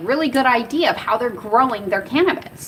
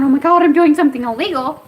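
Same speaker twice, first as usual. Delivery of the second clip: quick, louder panicked quote; hammed-up paranoid gasp; mock freaking out; 4 semitones higher, 6 dB louder, faster than usual. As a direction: imitate a nervous newbie panicking. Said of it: "people started freaking out".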